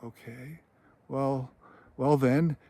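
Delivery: hesitant, with pauses between words; mildly nervous, feeling out the answer haltingly. Retold or imitated. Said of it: "nervously, you know".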